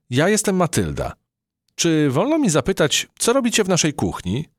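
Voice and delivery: high, polite mouse; sweet curious mouse; little mouse voice. A narrator's reading. Matylda the mouse politely questions the cockroach captain, high voice.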